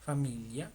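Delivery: familia with a palatal ly, fa-MEE-lya; Italian GLI sound. Shown as a demonstration. Teacher models the Italian word after the Spanish, careful pronunciation. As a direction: melt the l and i of familia into one sound. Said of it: "La G L I se pronuncia yi".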